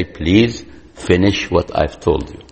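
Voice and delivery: put-on soft, smiling, patient request to the child; quiet parent staying calm. Shown as a demonstration. Parent calmly asking the defiant child to finish the task, soft and smiling. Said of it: "you be quiet, you smile, and you say".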